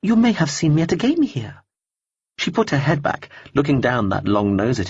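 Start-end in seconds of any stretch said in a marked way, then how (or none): 0.0-1.6 a cool, polite stranger brushing him off; lightly voiced woman. Woman character voice.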